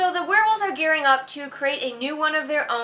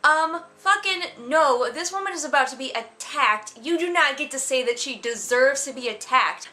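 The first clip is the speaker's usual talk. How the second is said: indignant retort; 3 semitones higher than usual. Retold or imitated. Reader scolding the judgy heroine, indignant and outraged. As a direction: call the heroine out with disbelief. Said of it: "And I was like".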